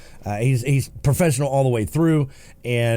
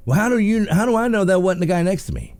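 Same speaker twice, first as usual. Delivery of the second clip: higher, challenging protest; mock protest; 7 semitones higher than usual. Driver disputing radar reading with officer, mock protest. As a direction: dispute it like a cornered speeder.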